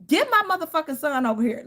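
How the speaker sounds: high, sharp cussing-out yell; furious outburst. Retold or imitated. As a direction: retell how you blew up at him. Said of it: "honey, I blacked out".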